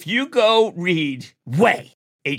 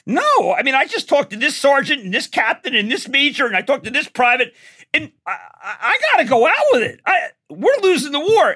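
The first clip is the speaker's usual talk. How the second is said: urgent Cronkite quote; 6 semitones higher than usual. Retold or imitated. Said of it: "He goes".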